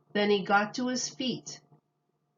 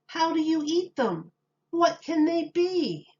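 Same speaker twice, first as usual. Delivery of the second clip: higher, eager questions; excited crowd; 9 semitones higher, 4 dB louder than usual. A narrator's reading. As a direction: ask it all at once, full of wonder. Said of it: "cried the townspeople".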